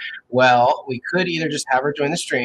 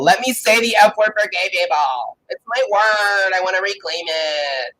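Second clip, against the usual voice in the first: loud mock rant, pitched up; ranting shout; 6 semitones higher, 7 dB louder than usual. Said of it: "me ranting about the F word for gay people".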